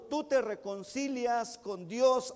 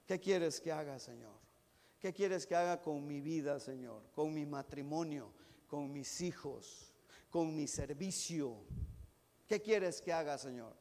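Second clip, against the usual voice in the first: quiet, lower, intimate asking of the Lord; soft prayer; 8 semitones lower, 6 dB quieter than usual. Pretend. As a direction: murmur it as a humble prayer. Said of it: "ahí está la clave". (oración suave y humilde)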